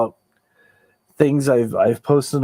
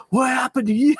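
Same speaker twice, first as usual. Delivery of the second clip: mock shocked question; 11 semitones higher than usual. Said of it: "People were like".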